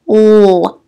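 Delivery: "L" as a held dark "ull" sound, not "el"; letter sound. Shown as a demonstration. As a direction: sound out "L" as at the end of hill. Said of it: "is that L sound".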